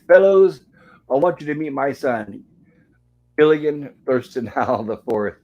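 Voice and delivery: lightly hammed proud introduction; proud announcement. Mister Howell introducing his son at the Harvard Club, proud call. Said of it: "and saying".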